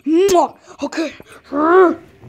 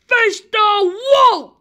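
slow, high shouted command; stern order; 5 semitones higher, much slower than usual. Acted. Kid-as-parent orders friend to the wall, shouting. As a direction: bark the punishment order.

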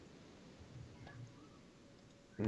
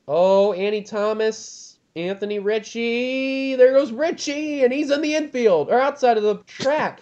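rising, slow crash call; excited commentary; 6 semitones higher than usual. Real, not acted. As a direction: race caller watching a crash. Crash during race commentary.

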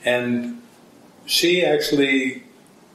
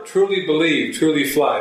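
louder; 3 semitones higher than usual. Retold or imitated.

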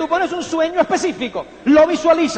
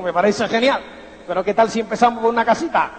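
consejo sereno; 6 semitones lower, faster than usual. Retold or imitated.

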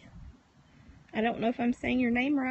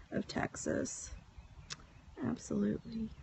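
whisper; 2 semitones lower, 14 dB quieter than usual. Real, not acted. Whispered aside on livestream.

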